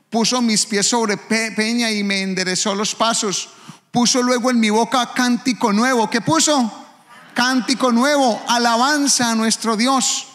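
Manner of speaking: loud rising pulpit voice; fiery preaching. Acted. A pastor reading the psalm to his church, loud and fervent. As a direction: preach it out to the congregation.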